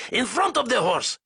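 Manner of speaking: high, loud commanding voice; shouted order. Acted. Zayson ordering fire in front of the horse, high loud command. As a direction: bark the target at the gunners. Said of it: "Zayson ordered".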